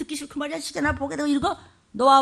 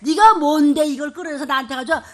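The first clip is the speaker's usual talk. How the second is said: indignant rebuke; 4 semitones higher, 4 dB louder than usual. Shown as a demonstration. Pastor confronts Satan indignantly.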